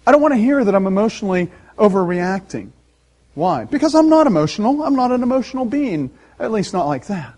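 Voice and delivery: mock-defensive denial. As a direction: put up a wall, voice climbing on the protest. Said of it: "would put up a wall".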